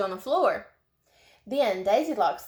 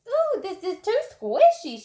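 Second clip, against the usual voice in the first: squeamish; 11 semitones higher, 5 dB louder than usual. A narrator's reading. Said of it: "she said".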